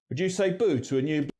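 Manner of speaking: Cockney accent with back "oo" vowels. Shown as a demonstration. Presenter showing the back vowel, in Cockney. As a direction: say it Cockney, "boo" far back. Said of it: "Cockney, which has quite a back pronunciation".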